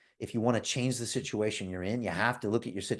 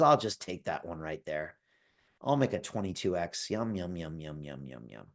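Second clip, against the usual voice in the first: greedy rival; 5 semitones lower, 5 dB quieter than usual. Retold or imitated. Greedy rival takes the chance.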